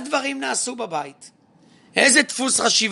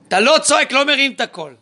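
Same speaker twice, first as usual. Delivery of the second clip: emphatic raised voice; 4 semitones higher, 3 dB louder, faster than usual. Acted. Insisting the father not shout.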